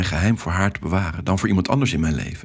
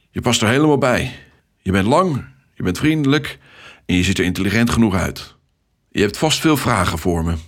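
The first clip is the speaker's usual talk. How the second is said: a hearty, upbeat traffic controller; cheerful Ted. Acted. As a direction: greet the new recruit with hearty enthusiasm. Ted's lively welcome, voiced.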